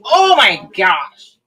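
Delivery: loud, high squeal of delight, then a drawn-out gasp; excited shout. Real, not acted. Crafter squealing to her viewers at the finished stone. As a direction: blurt it out thrilled at the perfect result. Reacting live to the peel reveal.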